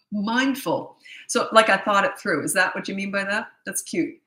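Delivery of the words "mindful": amused repeat. Shown as a demonstration. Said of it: "makes me sound very clever".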